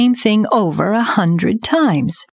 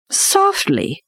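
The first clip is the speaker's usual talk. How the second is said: incredulous echo; 14 semitones higher than usual. A narrator's reading. Bagheera echoes the word in disbelief.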